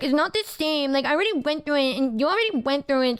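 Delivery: sulky retold complaint, speeding up; mock pouting. Retelling a tiff at the aquarium, mock pouting. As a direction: whine it in an imitated pout. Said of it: "pouting like a little bitch".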